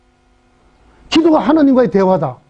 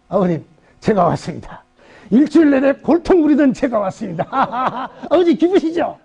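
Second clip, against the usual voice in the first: cheeky prayer; 2 semitones higher than usual. Retold or imitated. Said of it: "뻔뻔스럽게 얼굴 깔고".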